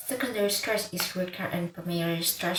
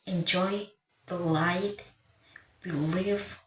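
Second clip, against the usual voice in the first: "enjoy, delight, believe", each stressed on its second syllable; spaced-out "enjoy, delight, believe", weight on the last syllable. Shown as a demonstration. Teacher listing example words, second syllable stressed. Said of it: "Usually stress falls on the second syllable".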